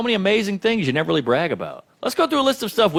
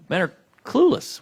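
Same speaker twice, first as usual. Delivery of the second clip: normal talking voice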